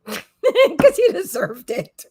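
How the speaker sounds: slow, drawn-out repeat through laughter; laughing repeat. Real, not acted. Repeating her dog's imagined reply to viewers, laughing slowly.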